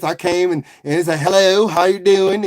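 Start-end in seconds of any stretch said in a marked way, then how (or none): 1.2-2.5 lightly mocked white person's greeting, drawn out. Streamer recalling his hello to visitors, light mock white voice. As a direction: imitate a stereotyped white person, slowly. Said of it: "I did a white person's voice".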